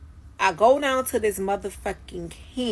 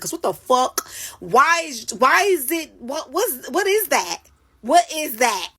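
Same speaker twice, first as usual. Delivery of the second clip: alarmed; 6 semitones higher, 4 dB louder than usual. Retold or imitated. Retold alarm at the bumps.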